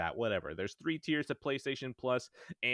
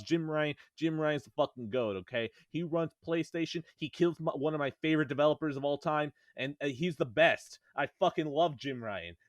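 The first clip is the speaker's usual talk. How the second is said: sarcastic praise; 4 semitones higher, 4 dB louder than usual. Real, not acted. Mock praise of Jim Ryan.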